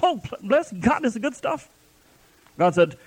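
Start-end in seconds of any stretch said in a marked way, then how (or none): 0.0-1.7 high, slow, smiling mock piety; mock pious brother. Preacher imitates a doubting brother's fake praise, high and slow. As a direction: play the brother faking delight, higher and slower. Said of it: "he's sitting there smiling at me like".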